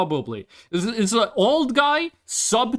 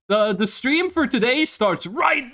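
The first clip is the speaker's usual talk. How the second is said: excited; 4 semitones higher than usual. Real, not acted. Streamer kicks off the stream.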